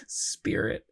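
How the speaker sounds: a breathless whisper of Spirit; whispered pun. Acted. Echoes pun word in whisper.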